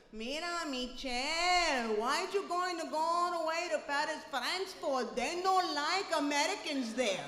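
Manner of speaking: put-on loud, emphatic Puerto Rican accent; Puerto Rican family accent. Relatives teasing Michelle about going to Paris, loud Puerto Rican accent. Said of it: "they sound like this".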